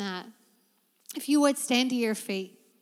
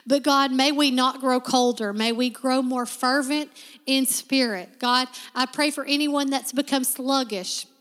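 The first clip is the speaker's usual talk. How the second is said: fervent prayer building louder; congregational prayer; 4 dB louder than usual. Acted. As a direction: pray over the room with growing fervour.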